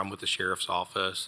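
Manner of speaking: ordinary talk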